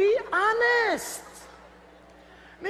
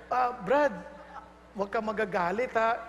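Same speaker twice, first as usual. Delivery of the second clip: gentle plea; 7 semitones lower, 4 dB quieter than usual. Shown as a demonstration. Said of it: "you just need to be lovingly frank".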